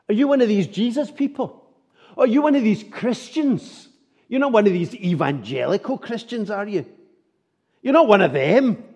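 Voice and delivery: mock accusation. Preacher voicing scornful neighbours, mock jeering. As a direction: needle them like a sneering neighbour.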